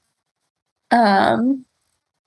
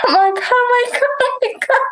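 high, rapid mock panic; frantic high-pitched imitation; retold panic; 11 semitones higher, faster than usual.

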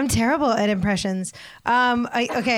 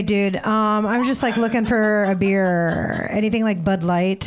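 bro customer impression; 3 dB louder than usual. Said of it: "That's my impression".

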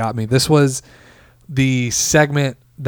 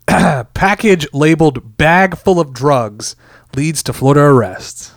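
headline read; slower than usual. Shown as a demonstration.

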